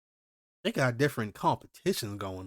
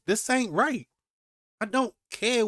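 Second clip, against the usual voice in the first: outrage; 9 semitones higher, 3 dB louder than usual. Real, not acted. Outrage at government.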